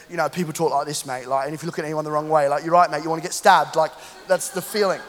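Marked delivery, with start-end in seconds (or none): 0.3-3.8 put-on rough-and-ready Cockney accent. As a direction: talk like a menacing Cockney mate. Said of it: "what's called Cockney, which is, like, a bit rough and ready".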